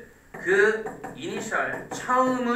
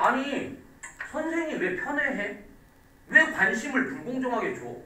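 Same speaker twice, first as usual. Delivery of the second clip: higher-pitched whiny student protest; student whining at teacher about favouritism, lightly acted; mock student complaint; 5 semitones higher than usual. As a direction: complain to the teacher like a slighted pupil. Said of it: "이런 식으로 얘기를 할 거라고".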